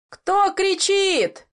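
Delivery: high, slow call from across the water; a slow challenge shouted over the sea; stern distant shout. A narrator's reading. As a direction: hail them sternly from far off. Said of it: "суровый окрик".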